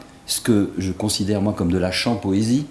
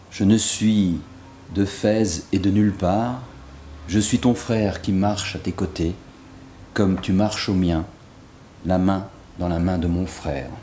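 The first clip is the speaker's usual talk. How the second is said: measured recital with pauses between phrases; poem recitation. Acted. Poet prolonging Rumi with his own verses, measured recitation. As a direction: let each verse settle before the next, easing down.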